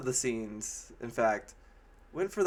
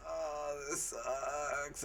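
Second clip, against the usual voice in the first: soft, deadpan groan of a line; bored complaint; 2 semitones higher, 8 dB quieter, much slower than usual. Retold or imitated. Mia Jovovich lying on the ground, softly and flatly complaining. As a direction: mumble it like she can't be bothered. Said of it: "Mia Jovovich laying on the ground like".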